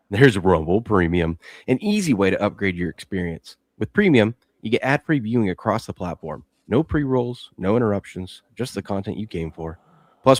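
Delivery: quick, upbeat sponsor read. Acted. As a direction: sell the premium plan to viewers.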